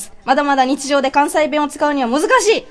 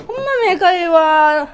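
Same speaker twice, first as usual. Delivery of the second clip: Kansai dialect demo; 3 semitones higher than usual. Shown as a demonstration. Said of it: "ってこういう風になりますね".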